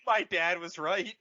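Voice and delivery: high, laughing through the words; laughing as Leia; laughing mock line. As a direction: giggle out a mock regret.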